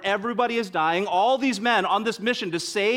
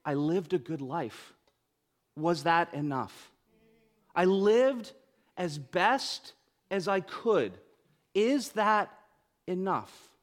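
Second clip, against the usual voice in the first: put-on old man weeping at a grave; slower than usual. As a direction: mildly voice an old veteran crying at the grave. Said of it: "he's crying as an old man".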